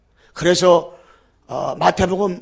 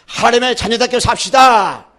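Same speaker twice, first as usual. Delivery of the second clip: leading congregation; 3 semitones higher, 4 dB louder than usual. Shown as a demonstration. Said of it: "한번 따라서 해요".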